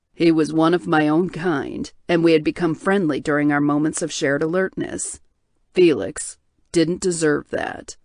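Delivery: low, heavy voice of a guilt-ridden man; tortured bear shifter. Acted.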